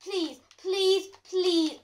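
loud upset pleading; panicked pleading. Real, not acted. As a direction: beg in distress. Panicked after explosion.

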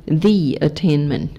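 "the" said as "thee" before "attainment"; careful teacher's "thee attainment"; modelled pronunciation. Shown as a demonstration. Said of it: "还有一个".

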